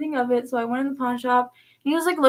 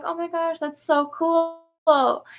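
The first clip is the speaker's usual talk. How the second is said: drawn-out, higher wowed reaction; retold awe; 5 semitones higher, much slower than usual. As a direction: stretch out COOL in admiration. Retold awe at dad's playing.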